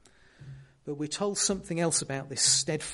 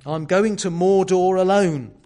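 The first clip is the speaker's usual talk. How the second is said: much louder and higher, yelling across the river; yelling back; 4 semitones higher, 11 dB louder than usual. Retold or imitated. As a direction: yell it back over the water. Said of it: "Frodo yells back to him".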